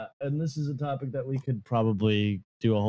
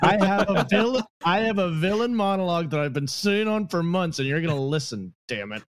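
megalomaniac rant; 3 semitones higher than usual. Pretend. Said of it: "Wall of Forced monologue".

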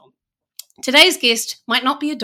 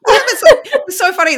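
high, loud laughing reply; real giggling, pitched up; 11 semitones higher, 8 dB louder, faster than usual. Real, not acted. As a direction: laugh through the words. Laughing at her own accent.

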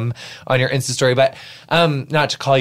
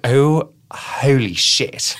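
slow stunned whisper; whispered shock; much slower than usual. Retold or imitated. Host retells walking in on a couple, whispering. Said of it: "I was like".

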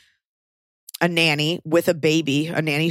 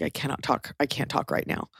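breathless whisper, much softer; 8 dB quieter than usual. Retold or imitated. Mother too overwhelmed to speak after finding her daughter, whispering. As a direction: barely get the words out in a whisper.

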